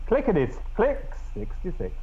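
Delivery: a sudden high bingo call; bingo caller. Pretend. Announcing the episode number, lightly voiced bingo caller. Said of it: "bingo call for sixty-six".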